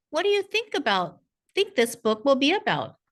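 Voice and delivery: upbeat parent question. Shown as a demonstration. Parent asking kindergartner what the book is about, eager high voice. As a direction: lift the voice high to invite a kindergartner to guess. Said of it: "you might ask questions like".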